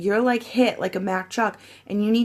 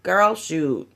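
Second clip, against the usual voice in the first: put-on exclaimed casual girl; 4 dB louder, much slower than usual. Shown as a demonstration. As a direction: exaggerate your everyday sassy 'girl, shoot'. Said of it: "I don't really talk like that. I go".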